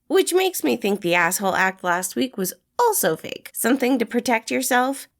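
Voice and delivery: poking fun at a grumpy loner; teasing young man; Remus, cheeky and teasing. A narrator's reading. Remus voiced in story.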